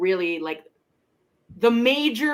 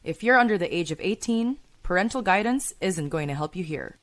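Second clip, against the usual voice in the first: measured, slightly low podcast disclaimer read; 4 semitones lower, 4 dB quieter than usual. Acted. Podcast host warning listeners about mature themes, measured disclaimer read. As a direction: read out a content warning evenly.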